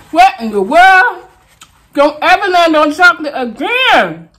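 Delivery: high, loud, laughing dismay; real laughing protest at chocolate pizza; shocked outburst. Real, not acted. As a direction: cry out in disbelief, half laughing. Reacting to bad pizza topping.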